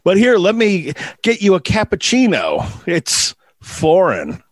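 put-on hammy Eastern European accent; put-on Serbian-style accent; Tesla accent. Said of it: "my spot-on Nikolai Tesla accent".

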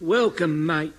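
chirpy Cockney valet; cheerful Cockney servant greeting; Cockney accent. Acted. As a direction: drop the aitches, London Cockney. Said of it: "You're a South Pacific Cockney?".

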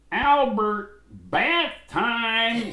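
loud high call across the house. Retold or imitated. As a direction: call him in for his bath. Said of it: "they go".

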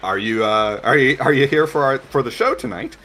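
showy performer's question; booming bearded lady. Acted.

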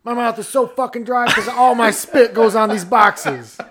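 hammed-up casino spokesman vowing; mock spokesman. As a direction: swear it like a hokey ad man.

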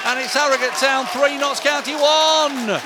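excited goal recap. Real, not acted. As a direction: still buzzing after the goal. Post-goal excited summary.

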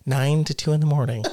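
lightly exaggerated country accent; teasing country-accent impersonation; mock country woman. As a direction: imitate her with a hint of country twang. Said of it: "I make her sound like she's country".

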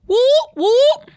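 high loud whoop; cheering. Real, not acted. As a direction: cheer for the Leos. Birthday shout-out cheer.

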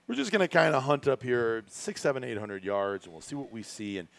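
a hint of the wiry guide's laid-back ramble; impression of the outfitter. Teasing a friend by mimicking the hunting guide, lightly laid-back. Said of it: "Is that not how he talks?".

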